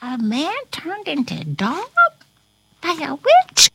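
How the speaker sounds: rising, astonished question; surprised question. Shown as a demonstration. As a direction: ask in wide-eyed disbelief. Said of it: "Yes, Corona".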